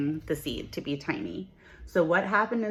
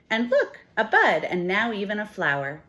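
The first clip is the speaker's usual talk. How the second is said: delighted with a laugh; 4 semitones higher, 4 dB louder than usual. Acted. Delighted discovery in the story.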